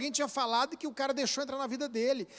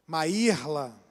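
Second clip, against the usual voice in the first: stern name call; 9 semitones lower than usual. Shown as a demonstration. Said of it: "Se eu falar assim".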